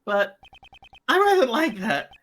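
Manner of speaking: sinister villain sliding into a whisper; Joker voice. Acted. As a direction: menace that drops to a hiss. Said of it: "Mark Hamill Joker mixed with, Kefka".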